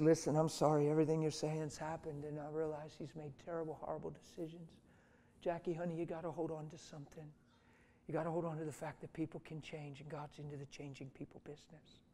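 quiet, sympathetic counsel, retold; soothing. Pastor calms the furious woman.

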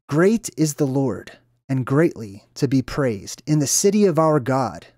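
slow, measured verse reading; scripture reading. Acted. Presenter reads a Bible verse to viewers, slow and measured. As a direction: read it out slowly, phrase by phrase.

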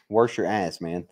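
ordinary talk, nothing marked

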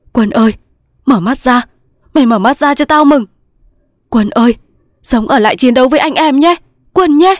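high, loud begging; urgent pleading. A narrator's reading. Thành shakes his reviving friend, urgent pleading. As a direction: call him back, rising to a cry.

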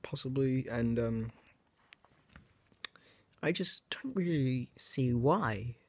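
ordinary delivery

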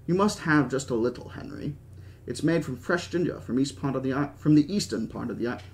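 put-on light, unconvincing British accent; attempted British accent. Host offering Henry ginger ice cream, attempted British accent. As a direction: try a mild British accent. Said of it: "I can't do a good British accent".

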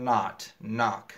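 "not, knock" with American open "ah" vowel; American accent. Shown as a demonstration. Teacher shows students American short o, American accent on "not, knock". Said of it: "لە ئاکسەنتی ئەمریکا بە زۆری ئۆی کورت".

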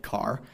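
"car" said with a full R and no vowel shift; standard American car. Shown as a demonstration. Teaching the contrast, a standard American car. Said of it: "pronounce it in a standard American accent".

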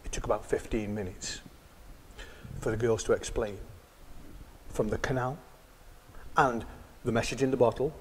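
quiet, gentle storytelling; soft narration. A narrator's reading. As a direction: tell it softly.

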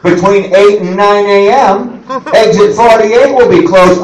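slow, official highway notice; slow mock road-closure announcement. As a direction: read it like a droning traffic bulletin. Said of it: "when they tell you".

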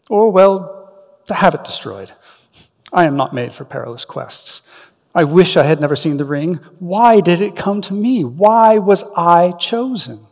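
plead, slowing on the last question; anxious Frodo. Acted. Frodo lamenting to Gandalf why he was chosen, anxious.

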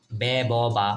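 বে, ব, বা chanted evenly as three vowel sounds; syllable drill. Shown as a demonstration. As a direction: recite বে, ব, বা clearly in a row. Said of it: "এটা হচ্ছে বে". (বে, ব, বা পরপর স্পষ্ট উচ্চারণ)

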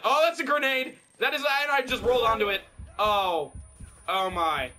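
high, loud alarm at the grenade. Real, not acted. Gamer panicking at a grenade, loud alarm. Grenade lands at his feet.

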